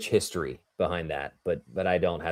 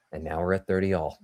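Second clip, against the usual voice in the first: serious commentator voice; 2 semitones lower, 6 dB quieter than usual. Retold or imitated. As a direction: switch into sober broadcast mode. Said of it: "my serious commentator voice".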